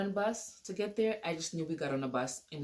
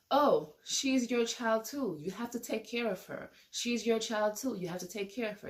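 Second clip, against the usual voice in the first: mild mock yell, higher pitched; retold yelling; 5 semitones higher than usual. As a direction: imitate a mother yelling, without full volume. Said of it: "she was yelling".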